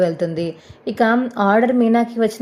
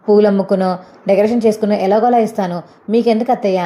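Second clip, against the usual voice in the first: louder, defiant answer to the mother-in-law; heated retort; 4 dB louder than usual. Acted. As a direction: push back hard, voice rising. Meena argues back with mother-in-law.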